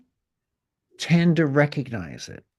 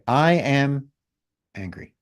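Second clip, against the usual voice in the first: ANGRY cut short and much softer, after a gap; short, quiet angry; slower than usual. Shown as a demonstration. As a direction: toss "angry" away quietly and briefly. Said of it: "Cut the word a little sh-, shorter".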